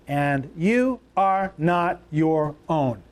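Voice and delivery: each word slow and weighted; slow emphatic reading. Shown as a demonstration. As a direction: lay it down slowly, word by word. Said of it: "Say that right out loud".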